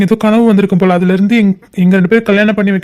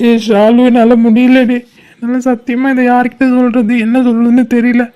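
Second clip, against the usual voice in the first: helpless, weepy plea to someone close; tearful pleading. Acted. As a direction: plead through tears, a touch understated. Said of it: "ஏன்டா அழுற?".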